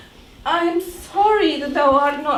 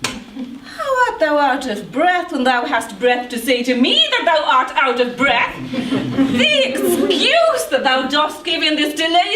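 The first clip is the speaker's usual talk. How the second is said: laughing. Acted. Juliet laughing at nurse.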